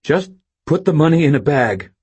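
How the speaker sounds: high, loud order. A narrator's reading. Robber orders Stan to bag money, commanding. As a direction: command it firmly.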